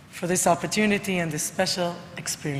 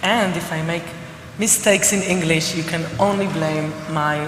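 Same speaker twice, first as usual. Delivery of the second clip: hoarse, cracking voice from a cold; rough, strained sick voice about to crack; voice about to break; 3 semitones lower than usual. Real, not acted. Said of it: "I apologize for my broken voice".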